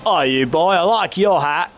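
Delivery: put-on drunk stranger, over-friendly; imitated drunk local. Drunk local returns to squeeze head, mock friendly. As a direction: mimic a drunk pub-goer accosting a visitor. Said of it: "you're drunk now".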